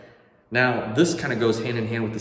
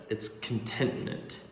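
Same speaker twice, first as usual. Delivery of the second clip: soft emphasis; 7 dB quieter than usual. Acted. Stresses the key word softly.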